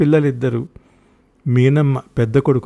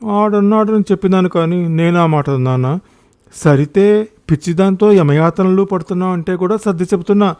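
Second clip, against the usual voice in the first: higher, indignant defence; exasperated retort; 4 semitones higher, 4 dB louder than usual. Acted. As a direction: argue back, fed up. Acted quarrel, defensive complaint. (విసుగ్గా ఎదురు సమాధానం)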